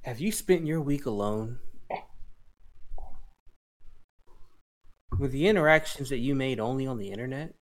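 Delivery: hammy late-night ad read; mock commercial voice. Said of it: "Take it away, Flacco".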